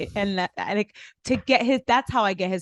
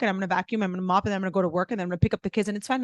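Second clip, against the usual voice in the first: petty; much faster than usual. Retold or imitated. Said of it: "really petty thing on purpose".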